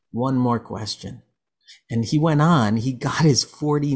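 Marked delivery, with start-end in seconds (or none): 0.1-1.2 slow, lightly imitated Russian accent. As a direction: draw it out with a touch of mock Russian. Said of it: "that's my Russian accent right there".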